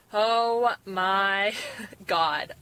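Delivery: slow, laughing oh my God; amazed and giggling; surprised laugh. Real, not acted. First look with braces on.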